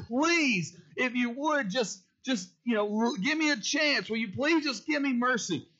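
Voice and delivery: a high, pleading voice. Acted. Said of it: "he's begging him for mercy".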